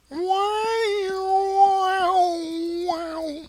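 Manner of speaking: very high, sustained "wow" wail; mock title sound effect. Spooky echo after the title.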